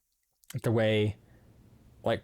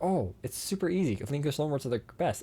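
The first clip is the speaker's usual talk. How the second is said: higher, breezy mock confidence; mocking naive people; 5 semitones higher than usual. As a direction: parody people who think it's easy. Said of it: "People are like".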